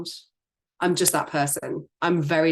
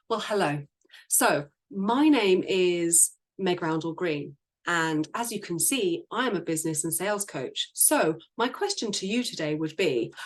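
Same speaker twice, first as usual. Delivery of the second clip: mock stiff sales pitch. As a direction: parody a scripted cold opener. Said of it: "humans don't speak like this".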